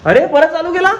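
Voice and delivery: high, surprised scolding question; caught you. Real, not acted. Father catching son with phone again, surprised.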